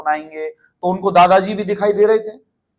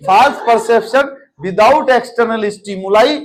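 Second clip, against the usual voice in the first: drawn-out, word-by-word read; slow dictation; 2 semitones higher, 3 dB louder, much slower than usual. Shown as a demonstration. Teacher repeating the definition for students to note, slow. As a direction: say it slowly so they can write it. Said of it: "ऐसे के ऐसे लिखना".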